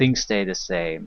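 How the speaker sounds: plain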